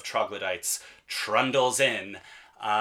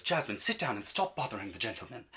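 scolding mother; 5 dB quieter than usual. Retold or imitated. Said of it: "and goes".

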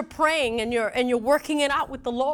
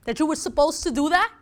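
exasperated wife; 4 semitones higher than usual. Retold or imitated. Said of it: "I'm like".

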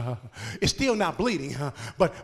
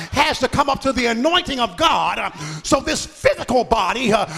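driving sermon cadence with punched phrase ends; rhythmic preaching; 2 semitones higher, 4 dB louder than usual. Acted. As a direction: build the testimony toward a rousing challenge. Preacher building in force.

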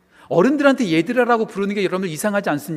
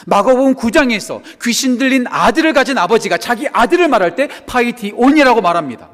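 loud, raised preacher's delivery; forceful preaching; 6 semitones higher, 8 dB louder than usual. Real, not acted. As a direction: drive the point home to the congregation. (힘주어 외치는 설교)

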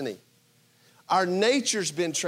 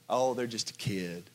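lenient parent; 8 semitones lower, 8 dB quieter than usual. Retold or imitated. Preacher voicing grace as a lenient parent, soft and indulgent. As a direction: lower and softer, indulgent sigh.

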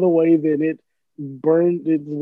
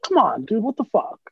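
exasperated complaint; 5 semitones higher than usual. Retold or imitated. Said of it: "It was like".

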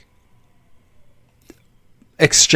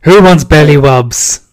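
squeaky praising a dog; 7 dB louder than usual. Acted. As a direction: coo at a pet pup. Talking to dogs in baby voice.

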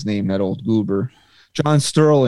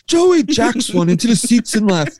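Sterling-style call; 10 semitones higher than usual. Retold or imitated. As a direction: ham up the radio home run call. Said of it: "his call for Joey Gallo".

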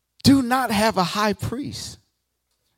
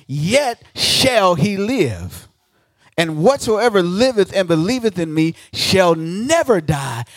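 loud, slowing on the key phrases; preaching Jesus' words; 4 dB louder than usual. Acted. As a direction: proclaim it like scripture from the pulpit. Jesus voiced, scripture preached.

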